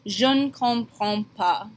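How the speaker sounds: Je ne comprends pas with je and ne blended; je ne run together. Shown as a demonstration. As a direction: slur je ne into one beat. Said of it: "combine the je and the ne".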